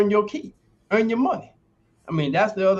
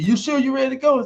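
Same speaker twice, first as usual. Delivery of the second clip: coach's doubt; 9 semitones higher than usual. Retold or imitated. Coach doubting in retold story.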